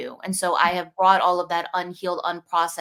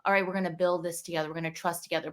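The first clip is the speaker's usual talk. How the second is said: 1 soft reassurance; 6 dB quieter, faster than usual. Retold or imitated. Reassuring the inner child.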